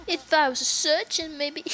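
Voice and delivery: French guest. Acted. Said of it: "she's supposed to be French".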